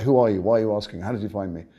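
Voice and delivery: imitating an irritated man's challenge; retold testy interrogation, starting loud; shirty. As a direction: fire off mock-indignant questions. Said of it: "he got very shirty with me".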